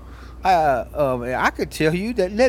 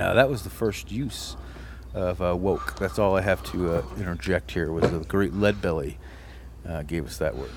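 Eastwood; 9 semitones lower than usual. Acted. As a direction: growl it out like an old Western gunslinger with hesitant uhs. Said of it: "Eastwood here".

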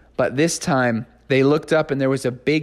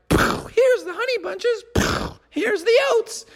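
much higher, slow cartoon delivery; showman Froggy. Froggy blasting cereal to the guy, high slow showman voice. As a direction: dish it out like a circus ringmaster.

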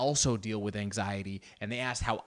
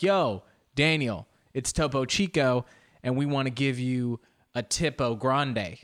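put-on American accent. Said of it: "went grande with the American accent".

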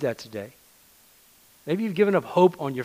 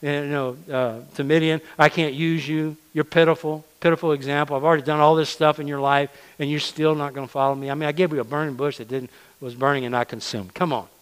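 louder, exasperated scolding; hammed-up rebuke, louder and impatient; mock scolding rebuke; 3 dB louder than usual. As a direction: play a fed-up God berating a reluctant servant. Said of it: "he didn't say".

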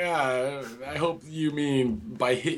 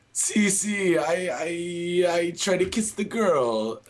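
put-on Italian accent; slower than usual. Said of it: "Wait, it's Italian again".

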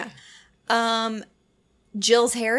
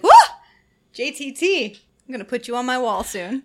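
excited fangirl; 3 semitones higher, 8 dB louder than usual. Retold or imitated. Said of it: "I was like".

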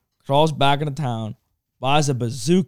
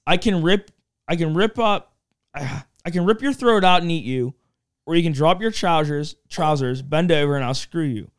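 talking bear. Acted. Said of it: "that was supposed to sound like".

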